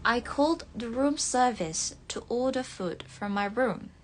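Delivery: British English, r's dropped; British accent. Shown as a demonstration. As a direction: read it as a British example sentence. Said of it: "kalau pengucapannya British". (logat British)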